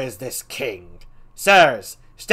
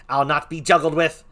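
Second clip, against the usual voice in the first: higher and much louder, furious; raging Laertes; 9 semitones higher, 11 dB louder than usual. Acted. Laertes raging at the king over his father, furious. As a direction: hurl it at the king.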